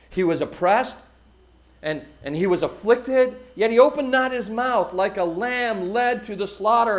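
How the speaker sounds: emphatic preacher's reading, building through the verse; declaimed Bible passage; scripture recitation. Acted. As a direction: recite it with weight and drive. Recites Isaiah to the congregation.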